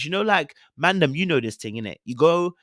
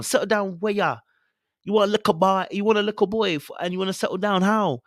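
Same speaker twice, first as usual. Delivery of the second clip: incredulous challenge; 5 semitones higher than usual. Acted. Mock-challenges contestant's wish.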